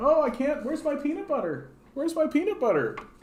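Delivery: very high, swooping, whining dog voice. Voicing a little pug begging nearby: voicing a whiny pug. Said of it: "You little whiny guy".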